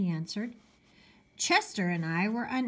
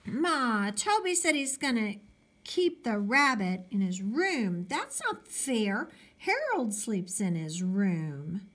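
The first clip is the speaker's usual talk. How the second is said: put-on complaining boy; 2 semitones higher than usual. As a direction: complain to Mom that it's unfair. Pete complaining to mother.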